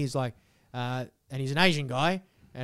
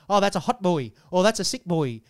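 a hint of Asian-accented impression; imitated Asian accent; 3 semitones higher, 4 dB louder than usual. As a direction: lightly put on an Asian accent. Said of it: "I do it in this Asian accent".

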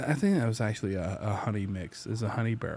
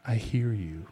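gentle; 3 semitones lower, 5 dB quieter, slower than usual. Retold or imitated. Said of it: "He said, real gently".

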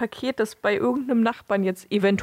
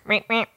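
horn imitation; 3 semitones higher than usual. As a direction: honk imitation, normal pitch. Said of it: "das hat eher so ein tiefes".

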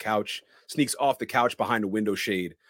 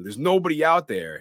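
raised, higher scolding yell; imitated yelling; 7 semitones higher, 6 dB louder than usual. Laurie tells off a frightened boy, mock yelling. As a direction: scold loudly, imitating an exasperated sitter. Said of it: "Laurie's yelling at him".

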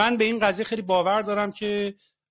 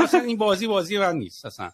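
laughing retort; 3 semitones higher than usual. Retold or imitated. Retelling his own retort.

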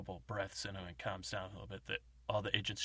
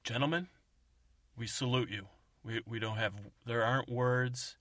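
solemn tribute; 2 semitones higher, 5 dB louder than usual. Retold or imitated. Woman's grand tribute.

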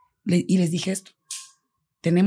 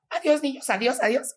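higher, bright goodbye hiding tears; waving the children off while holding back tears; forced cheerful goodbye; 6 semitones higher than usual. Retold or imitated. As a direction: sound fine so the kids don't notice. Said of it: "no quería que me vean llorando".

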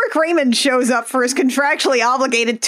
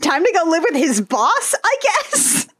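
mock earnest Beauty; 3 semitones higher, faster than usual. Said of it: "voicing Beauty sarcastically".

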